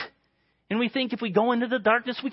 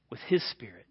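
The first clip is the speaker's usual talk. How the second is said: whisper; 10 semitones lower, 6 dB quieter than usual. Real, not acted. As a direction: whisper his spirit softly. Whispered phrase.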